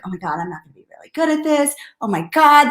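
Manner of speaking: rushed mock panic; panicky self-doubt. New recruit doubting herself, rushed mock panic. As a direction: blurt the fear fast. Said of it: "people will start to be like".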